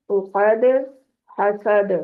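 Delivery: each word stopped with a bounced last letter; qalqala endings. Shown as a demonstration. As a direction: snap each ending so it rebounds. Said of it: "इन हरूफ पे कलकला होगा". (आख़िरी हर्फ़ पर उछलती क़लक़ला)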